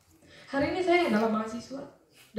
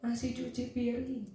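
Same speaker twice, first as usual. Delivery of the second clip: softly voiced motherly answer; gentle reply; 3 dB quieter, slower than usual. Mother answering daughter from the kitchen, mild gentle call. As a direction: imitate a patient mother, understated and gentle. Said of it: "Lembut suaranya".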